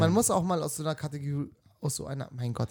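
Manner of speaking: tipsy slurred speech; slurring. Real, not acted. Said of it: "ich lalle schon wirklich".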